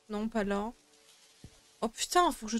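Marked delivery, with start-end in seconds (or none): 1.8-2.3 sudden high exasperated oh. Real, not acted. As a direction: blurt it out, fed up. Frustrated at unsorted shelves.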